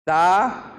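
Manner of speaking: "Tábua" split as Tá... bua, long pause between; syllable by syllable. Shown as a demonstration. Teacher separating syllables for students, "Tábua" in two slow parts. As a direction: draw out "Tá", pause, then give "bua". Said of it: "Separar a sílaba e ver onde tá a tônica".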